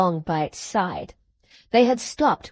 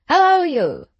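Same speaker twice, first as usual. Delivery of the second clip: hailing shout; 7 semitones higher, 6 dB louder than usual. A narrator's reading. Guard hailing rider.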